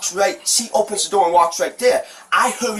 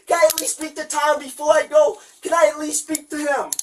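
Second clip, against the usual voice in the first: tearful pleading; 5 semitones higher than usual. Real, not acted. Crying suspect begging officer.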